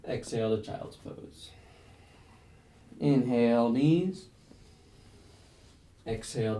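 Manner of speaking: measured breath cues with long pauses between; yoga flow cueing. Real, not acted. Yoga teacher leading a class through a flow, rhythmic breath-paced cueing. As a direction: call each move on the breath, inhales lifted, exhales easing off.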